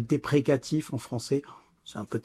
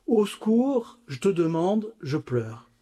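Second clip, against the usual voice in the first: put-on child crying for help; 2 semitones higher than usual. Preacher imitating a small child calling God for help. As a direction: mimic a four-year-old calling for help. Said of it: "On a l'impression de décrire un enfant de quatre ans".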